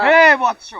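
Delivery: put-on loud, lofty old sage call; grand magician. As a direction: proclaim like a mystic. Magician addresses the boy grandly.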